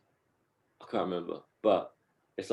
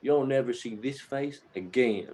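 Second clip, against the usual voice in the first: eloquent five-year-old, retold; 3 semitones higher than usual. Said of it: "he talks so eloquently for, like, a five-year-old".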